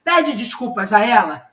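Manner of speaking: "Pede" hit hard, each word set down firmly; firm, commanding order. Shown as a demonstration. Director orders the employee to apologize, firm and commanding. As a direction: impose it like a boss laying down the law. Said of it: "olha como que eu já mudei a minha entonação".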